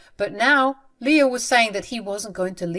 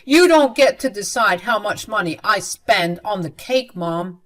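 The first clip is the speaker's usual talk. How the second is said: stern rebuke; 6 dB louder than usual. Acted. Son scolds mother in quarrel.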